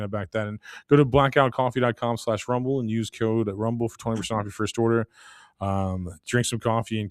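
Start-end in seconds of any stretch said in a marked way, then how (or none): 0.5-5.1 sponsor read in an even pitch. Acted. Host pitches coffee to listeners, scripted ad read. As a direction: read the sponsor copy straight through.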